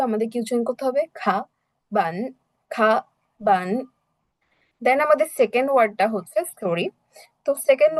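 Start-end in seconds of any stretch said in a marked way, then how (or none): 1.1-3.7 খা, বান each held through its whole tone; full tone. Shown as a demonstration. Teacher drills textbook, full tones on খা, বান. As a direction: give খা and বান separately, no half tone. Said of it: "পুরো টোনটা উচ্চারণ করতে হবে".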